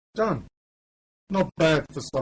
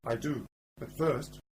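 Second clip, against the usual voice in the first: hushed sneaking; 15 dB quieter than usual. Acted. Sneaking past the guards.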